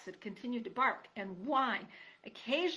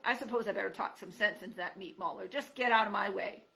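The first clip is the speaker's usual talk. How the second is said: grumpy porcupine grumbling; a lightly voiced snarling old porcupine; mild snarl; 5 dB louder than usual. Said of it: "he snarled".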